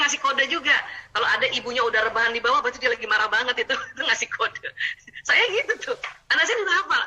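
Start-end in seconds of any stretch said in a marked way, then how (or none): 5.3-7.0 higher, laughing through the words. Real, not acted. Mother laughing as she admits her own habit. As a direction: laugh at herself while admitting it.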